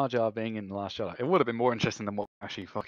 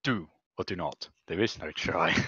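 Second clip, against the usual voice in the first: lower, softer Yoda line; lightly voiced little Jedi master; understated Yoda delivery; Yoda quote; 5 semitones lower, 3 dB quieter than usual. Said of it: "Yorkshire accent".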